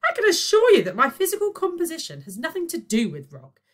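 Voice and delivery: lofty, high and loud scorn; disdainful. Acted. Virgo to Boyle, disdainfully correcting him. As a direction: look down your nose at them. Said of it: "said Virgo disdainfully".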